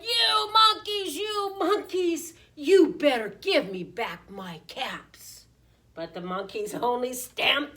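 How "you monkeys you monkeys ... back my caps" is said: loud, slow, high-starting scolding; quite angry peddler. A narrator's reading. Peddler stamping his foot at the monkeys, angry. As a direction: scold loudly, leaning on each drawn-out word. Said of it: "He was quite angry".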